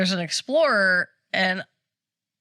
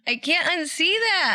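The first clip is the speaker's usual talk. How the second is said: much higher, laughing as she speaks; laughing disbelief; 9 semitones higher than usual. Real, not acted. Reacting to the strange video, laughing. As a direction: laugh out the horror.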